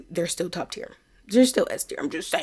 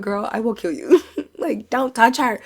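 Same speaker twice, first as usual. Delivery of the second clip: mock threat; 5 semitones higher, 3 dB louder than usual. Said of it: "And we both went".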